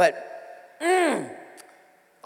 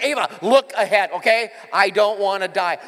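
louder mock-panicked warning; alarmed dad; 6 dB louder than usual. Dad warning his daughter to watch the road, louder. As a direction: bark it at a distracted new driver. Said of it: "I'm like".

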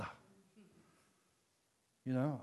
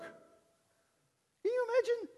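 much higher, slow marvelling; amazed; much slower than usual. Real, not acted. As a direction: marvel at the word. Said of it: "means to croak".

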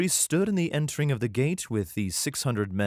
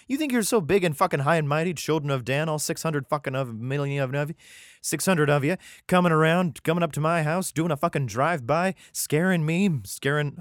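higher, hammed-up outraged tirade; indignant rant in accent; 4 semitones higher than usual. Micah raging at children of Dan, hammed-up accented rant. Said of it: "I change accents so suddenly".

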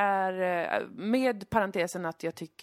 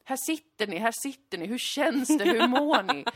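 higher-pitched mock squeal of delight; imitated gushing scream; 4 semitones higher, 4 dB louder than usual. Host running out to greet the couples, mock excited screaming. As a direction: gush like an over-excited TV host, mildly shrieked. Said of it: "hon skriker".

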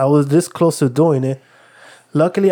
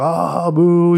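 mock crowd boo, a touch higher; imitating booing crowd; 4 semitones higher than usual. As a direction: act out the crowd's drawn-out protest. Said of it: "everybody's like".

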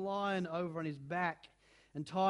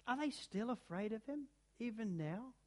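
tearful; 3 semitones higher, 7 dB quieter than usual. A narrator's reading. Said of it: "sobbed Susan".

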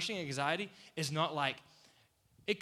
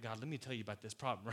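sassy; 4 semitones lower, 4 dB quieter, faster than usual. Retold or imitated. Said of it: "hand on hip, like".

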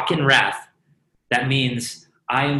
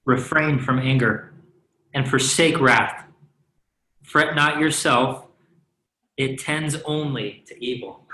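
scripture reading. Shown as a demonstration. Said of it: "You want me to just read it all again?".

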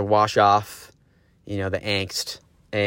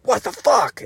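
livid surfer; 14 semitones higher, 3 dB louder, slower than usual. Retold or imitated. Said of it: "he's fucking livid".

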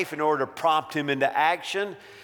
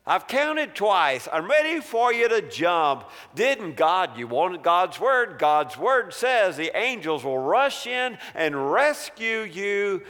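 higher, pressing tempter voice; mock-exasperated coaxing; impatient devil; 4 semitones higher than usual. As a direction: push him to jump, insistently. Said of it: "The devil's making a new pitch".

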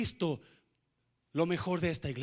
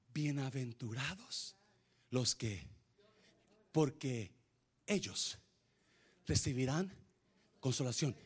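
hushed scripture; 6 semitones lower, 8 dB quieter than usual. Real, not acted. Quoting scripture, hushed and slow.

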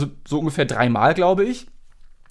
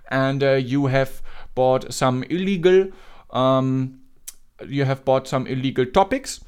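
put-on Indian accent. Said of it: "den indischen Akzent".

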